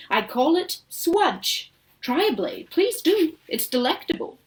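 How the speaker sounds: eager showman calling out; proud host urging the children to taste; Wonka crying out. Acted. Showman urging the children to try the grass. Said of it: "crying out as he pointed".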